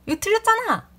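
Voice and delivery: sudden high, loud furious bark; a rude customer suddenly shouting at the clerk, high and loud; angry yell. Retold or imitated. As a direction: snap out the accusation in a sudden burst of rage. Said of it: "소리를 갑자기 버럭 지르면서".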